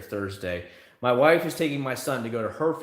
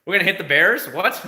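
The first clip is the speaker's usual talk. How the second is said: confused disbelief; 6 semitones higher, 7 dB louder than usual. Retold or imitated. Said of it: "I was like".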